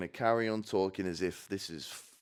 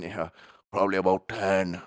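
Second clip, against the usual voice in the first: put-on light Irish-accented reply; imitated Irish accent; 4 dB louder than usual. Pet cremator telling his daily record, light Irish accent. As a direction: answer as an Irishman, lightly done. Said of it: "he went Irish".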